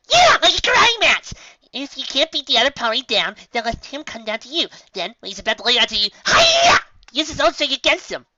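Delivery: high, loud, bubbly karate cry; excited Pinkie. Acted. Pinkie pitching her idea to friends, high and excited. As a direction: burst with excitement, shout hi-ya.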